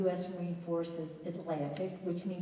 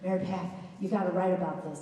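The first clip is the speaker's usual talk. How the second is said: put-on southern accent; faster than usual. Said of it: "in this very southern accent".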